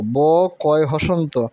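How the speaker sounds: ব কয় হসন্ত said slowly with the ক held; held consonant demo. Shown as a demonstration. Teacher showing pupils the held ক, slow and drawn out. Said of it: "একটু চাপ দিয়ে".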